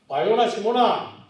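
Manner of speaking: loud slow proclaiming; quoted praise to Peter; warm blessing. Acted. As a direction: bestow the name with pride.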